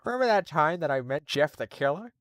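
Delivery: loud high call on Hey Lois, then a lightly voiced cartoon dad; hammed-up sitcom dad calling his wife; Peter Griffin impression. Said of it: "a Peter Griffin voice".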